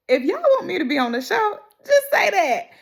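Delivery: high, laughing plea to the show. Real, not acted. Fan laughing as she asks the show to hire her. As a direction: laugh it out while pitching yourself.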